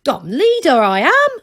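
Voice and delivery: loud, wounded whine; whining. A narrator's reading. The old leader Torret whines at Granny, loud and aggrieved. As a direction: complain loudly about lost respect.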